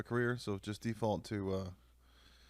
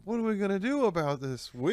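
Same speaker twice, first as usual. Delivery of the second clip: higher, louder, laughing; laughing mock line; 10 semitones higher, 8 dB louder than usual. Friend joking about cheesy video, laughing. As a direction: giggle through a hammy line.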